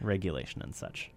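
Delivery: a hint of a theatrical villain; evil villain voice. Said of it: "In my best evil villain voice".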